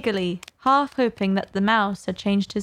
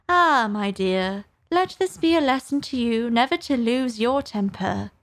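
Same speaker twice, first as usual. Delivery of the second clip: put-on old crab lecturing; 3 semitones higher than usual. Old mother crab lecturing daughter.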